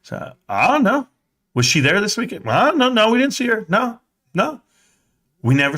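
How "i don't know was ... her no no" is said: put-on high kid voice, nervous and evasive; childish denial. Kid to his dad, nervously denying. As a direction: dodge the question like a guilty kid. Kid dodging dad's questions.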